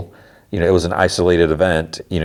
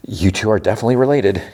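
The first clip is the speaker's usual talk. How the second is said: quick, higher retort, mildly exasperated; retold exasperation, quick and raised in pitch; mildly frustrated; 4 semitones higher, faster than usual. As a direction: say it with a touch of frustration. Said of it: "like, kinda getting frustrated".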